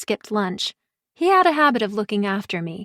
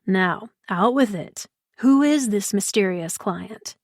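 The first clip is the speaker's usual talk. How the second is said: smoldering Liam; slower than usual. Acted. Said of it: "gave me a smoldering look".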